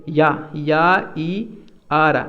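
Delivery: या and ई drawn out slowly as separate sounds; sound-by-sound breakdown. Shown as a demonstration. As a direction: split it slowly into "ya", then long "ee". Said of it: "इसको पढ़ते हैं हम". (या और ई, अलग-अलग खींचकर)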